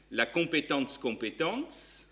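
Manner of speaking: compétence compétence said slowly with a joking German accent; a hint of a German accent, self-mocking. Shown as a demonstration. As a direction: put on a light German accent, tongue in cheek. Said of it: "avec mon magnifique accent allemand".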